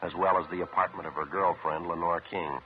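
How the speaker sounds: clipped radio detective narration; deadpan police report narration; old radio show. A narrator's reading.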